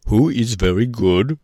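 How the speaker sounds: Scarecrow voice. A narrator's reading.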